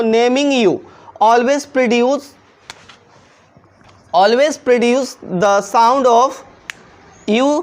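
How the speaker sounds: slow, deliberate dictation of the rule; reciting the rule. Shown as a demonstration. Teacher reading rule number seven aloud, very slow. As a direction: dictate each word slowly so students can write it. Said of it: "rule number seven में देखिए दोस्तों".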